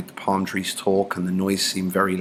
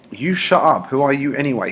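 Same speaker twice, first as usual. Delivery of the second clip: louder, snapping at Piggy; Jack's angry retort; 6 semitones higher, 5 dB louder than usual. Acted. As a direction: throw it at him like a bully's insult. Teacher voices Jack's angry retort.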